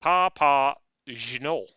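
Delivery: slow, drawn-out, stretched Papageno; exaggerated pronunciation. Shown as a demonstration. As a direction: stretch out every syllable of Papageno. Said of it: "Pa-, Papageno".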